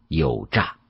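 usual speaking voice

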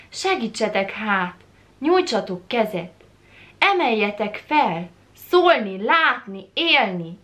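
impassioned plea, each phrase surging and falling; pleading. Acted. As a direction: beg to be helped up, word by word. Poem's plea to be lifted up.

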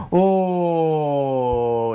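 slow, drawn-out amazed count; surprised. Real, not acted. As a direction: stretch it out in surprise.

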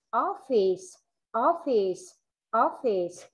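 OFFICE with a distinct final S hiss; light but clear ending. Shown as a demonstration. Teacher models endings for class, OFFICE with audible final S. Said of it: "dù nhẹ nhưng nó rất là rõ".

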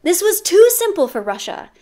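bad Russian accent. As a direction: brag in a hammy Russian accent. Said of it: "my bad Russian accent".

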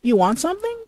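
high, half-hearted husky voice; first try at a husky woman; husky lady voice. Acted. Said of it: "Whoa, that husky voice".

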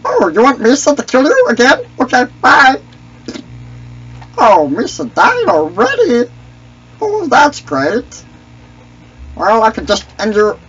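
Misa voice. Acted. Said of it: "I can do a pretty good impression".

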